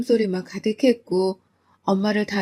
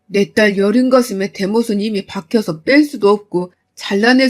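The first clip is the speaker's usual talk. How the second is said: loud, stern ultimatum; stern fury; 3 dB louder than usual. Retold or imitated. Father telling the son-in-law to leave his daughter, stern and furious. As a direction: lay down the law coldly and loud.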